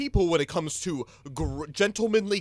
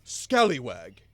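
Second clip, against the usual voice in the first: put-on pirate accent; 5 semitones lower, 3 dB louder, slower than usual. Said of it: "my pirate accent".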